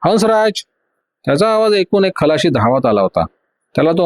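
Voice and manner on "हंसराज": higher call through the cabin door; calling out a name, pitched up; loud call. Acted. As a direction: call the sailor's name loudly. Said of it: "जोराने आरोळी ठोकली".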